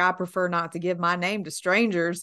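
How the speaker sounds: fake, put-on Southern accent. Retelling someone dodging an interviewer asking her name: fake Southern accent. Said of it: "fake, like, Southern accent".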